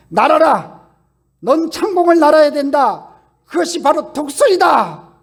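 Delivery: loud, high shout urging the chick to fly; shouting command. Acted. Parent eagle crying out to its falling chick, shouting loud. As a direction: cry out like a parent pushing its young from the cliff. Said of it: "이렇게 외쳐요".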